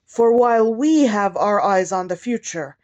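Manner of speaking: measured inaugural poem delivery, phrase by phrase; poem recitation. Acted. Poet addressing President and nation with a poem, measured formal recitation. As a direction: recite it formally, stressing key words, falling at line ends.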